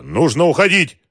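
high, loud urging; urgent shout. A narrator's reading. Adviser urging escape from gunfire, urgent shout. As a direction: press him loudly to get out. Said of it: "крикнул Дронго".

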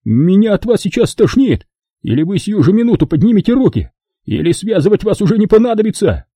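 Kelly furious at the movers. Acted. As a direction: rage at them, fully lost it. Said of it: "взъярился окончательно".

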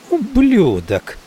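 high, slow, spat-out insult; furious curse. A narrator's reading. Maggie furious at the narrator, slow high curse. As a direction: hurl it at him with slow fury.

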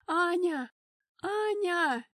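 loud, high panicked calling; frantic shout. Acted. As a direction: yell her name from the hall, beside yourself. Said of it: "Не своим голосом кричала Эльза". (отчаянный крик не своим голосом)

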